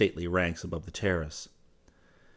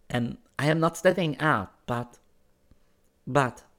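put-on higher, urgent girl's voice; almost feverish; 6 semitones higher, 4 dB louder than usual. A narrator's reading. Girl explains bohemian ways to a newcomer, almost feverishly. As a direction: explain eagerly in a raised character pitch. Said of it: "she began talking almost feverishly".

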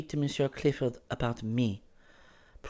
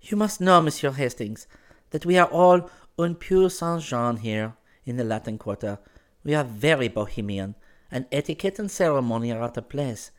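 put-on higher, urgent girl's voice; almost feverish; 6 semitones higher, 4 dB louder than usual. A narrator's reading. Girl explains bohemian ways to a newcomer, almost feverishly. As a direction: explain eagerly in a raised character pitch. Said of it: "she began talking almost feverishly".

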